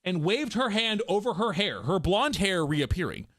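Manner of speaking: fuller, flowing narrator read; story narration. A narrator's reading. Narrator describing her blonde hair returning, flowing storytelling. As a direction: read it through evenly in one flow.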